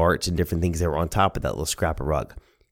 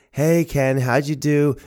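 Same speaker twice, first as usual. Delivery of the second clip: higher-pitched grandmother voice; 8 semitones higher, slower than usual. Retold or imitated. Grandmother asking grandson about the game, higher-pitched greeting. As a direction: call out a question as Nana. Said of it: "Nana would say".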